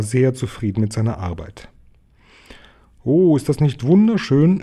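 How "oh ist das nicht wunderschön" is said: higher, louder mother bird's cry of delight; delighted exclamation. A narrator's reading. Frau Hai admiring the new nest, delighted exclamation. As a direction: exclaim with wonder, lifting the voice. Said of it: "rief Frau Hai".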